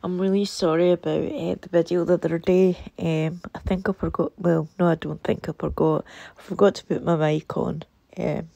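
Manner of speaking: sore throat voice; speaking through a sore throat; swollen tonsils voice. Real, not acted. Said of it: "I've got a super sore throat".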